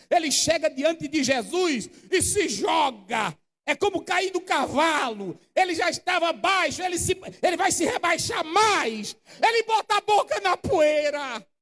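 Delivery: preacher building up the leper's fall; building preached shout. Acted.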